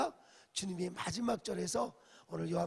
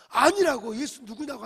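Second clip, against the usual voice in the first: angry denial; 5 semitones higher, 12 dB louder than usual. Retold or imitated. Peter denies third time.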